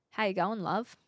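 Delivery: careful try at an Aussie greeting; lightly put-on Aussie accent; Aussie accent attempt. Shown as a demonstration. Streamer practicing for viewers, careful Aussie accent. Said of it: "doing an Aussie accent turns me Kiwi".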